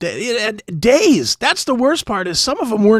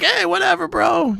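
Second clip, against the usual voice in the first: laid-back customers; 12 semitones higher than usual. Retold or imitated. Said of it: "And they all were like".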